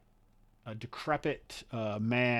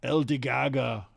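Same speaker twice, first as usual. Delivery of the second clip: loud proclamation; 2 semitones higher, 10 dB louder than usual. Acted. GM voices the NPC.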